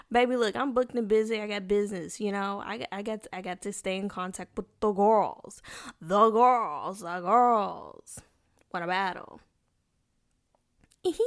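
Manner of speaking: playful diva voice defending her texting; sassy diva brag. Pretend. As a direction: brag like a busy diva, then call out the girls.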